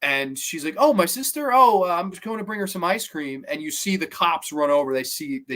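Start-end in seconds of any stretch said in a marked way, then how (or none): 0.8-3.4 put-on dazed Baby Jane voice. Dazed Jane answering police.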